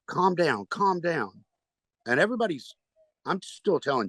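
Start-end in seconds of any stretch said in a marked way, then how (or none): 0.1-1.5 higher-pitched pleading to settle him; imitated calming partner. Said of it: "And she says".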